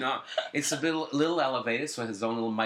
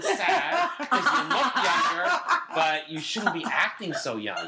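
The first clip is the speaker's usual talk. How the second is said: laughing through the words; giggling while talking, slowed; 4 semitones higher, 3 dB louder, slower than usual. Real, not acted. Laughing over friend's age.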